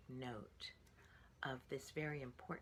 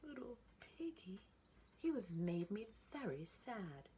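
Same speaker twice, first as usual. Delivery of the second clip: sad father; 7 semitones higher than usual. A narrator's reading. Father telling piggy he is sad, mild sad voice. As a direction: sigh it out. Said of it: "Said the father".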